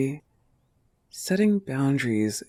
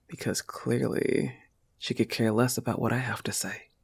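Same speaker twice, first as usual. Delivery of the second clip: bitter whisper; 4 dB quieter than usual. Acted. Bitter aside about the rival.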